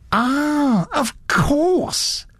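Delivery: a hint of a fussy elderly gent, curious; fussy gentleman. Satterthwaite sudden recognition.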